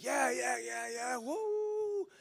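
imitating the church whooping, the woo shooting up high; excited cheering. Congregation hyped about the new vision, excited mock whooping. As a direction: cheer it like a crowd buying in.

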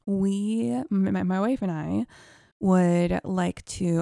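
stuttering nervously; halting, stammering request. Retold or imitated. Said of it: "I'm stuttering as I'm repeating the story".

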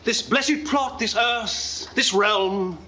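soaring theatrical Shakespeare recital; grand tragic wailing. Acted. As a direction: declaim it like a grand stage actor. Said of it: "How about Richard the Second?".

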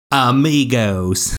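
drawn-out American-accented amigos; slow, anglicized Spanish; gringo accent. Shown as a demonstration. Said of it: "my best gringo accent".

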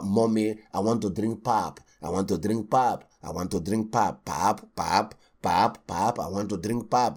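put-on low, whining child asking mommy; mock child pestering for pap; whiny child. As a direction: nag like a small kid. Child whining to mother in story.

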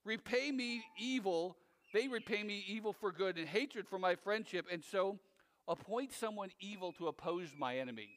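a firm, weighty recitation of curses; angry psalm reading. Acted. Pastor reads an imprecatory psalm aloud, grim and firm. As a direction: read the curses with grim force. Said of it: "listen what he asks for them".

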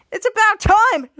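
loud, slow impatient line; mock impatience. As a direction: drag it out impatiently. Villain agrees impatiently.

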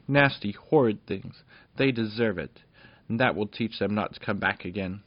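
a small princess scolding the villains; indignant little princess. Acted.

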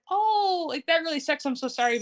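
high, commiserating "oh" easing downward; sympathetic. Retold or imitated. Amanda hears Matt lost his job, acted-out sympathy. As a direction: imitate someone offering sympathy, starting high.

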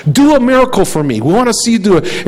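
teasing sneer, rising on the miracle demand; a light mocking king's taunt. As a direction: toy with the prisoner, goading him. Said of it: "Herod is kind of mocking".

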